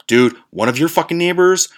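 high, loud, frantic warning; panicked. Retold or imitated. Telling the guys about the neighbor, panicked and loud. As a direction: blurt it out in terror to friends. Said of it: "I told these guys that".

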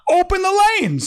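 high, loud demanding yell; mock shout. Commuters yelling at the council to open lanes, shouted.

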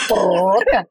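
throaty brrrr of a sick car; rough engine noise. Shown as a demonstration. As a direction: rattle like a coughing engine. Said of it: "as you can hear".

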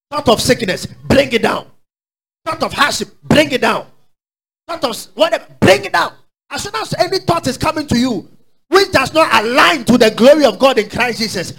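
high, emphatic pulpit call and answer; forceful preaching. Real, not acted. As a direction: drive each command home to the congregation. Preacher drills a command.

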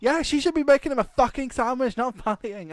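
high mock drunk Glaswegian heckle; imitating a Scottish accent. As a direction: do the Scottish fan from the crowd. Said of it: "heavy Scottish accent".

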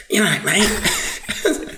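drawn-out high mock Black Country accent; mock local accent. Friend teasing the storyteller, mock Black Country accent. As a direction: stretch it slow and high like a Black Country lad. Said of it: "as the first accent in the dialogue".

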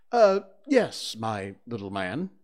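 uneasy mock-doctor answer; anxious reply. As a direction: nervously play the grown-up doctor. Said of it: "Slightly anxiously replied".

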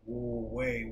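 high-pitched mock alarm; imitating Spanish mother. Mother interrupting her child's dream story, mock alarm. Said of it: "Spanish mothers have".

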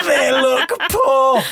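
put-on very high, slow posh child accent; drawn-out, high posh vowels; posh schoolchild. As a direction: squeak it like a posh little pupil. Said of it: "Or poor in my accent".

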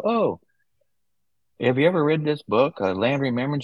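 retold eager question, pitched well up; excited question. Author's son retelling his thrilled question to a server, high and eager. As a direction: mimic his own eager surprise at meeting a Floridian.

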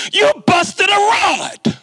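high, slow, dragged-out mechanic's verdict. Retold or imitated. Mechanic breaks the news to the student, in a high, slow, drawn-out voice. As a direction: stretch it out like bad news for a kid. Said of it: "he says".

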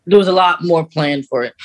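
ordinary delivery

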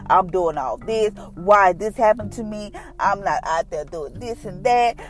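mildly indignant retold complaint; reenacted fussing, slow and insistent at first; fussing at God. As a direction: argue your case with God, a touch aggrieved. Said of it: "just rapping and just fussing at God".

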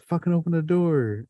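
high, strained mock yell at the door; frantic retold order. Scared teen snapping at the friend stuck at the door, high and urgent. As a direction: push him hard to open it, in a retold panic.

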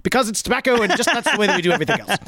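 mock English accent. Podcast host mocking old English blenders, in a mock English accent. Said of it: "I made fun of the English accent".

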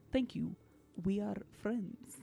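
slow, badly faked Russian accent; poor Russian accent. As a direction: attempt a Russian accent, slowly. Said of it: "poor Russian accent".

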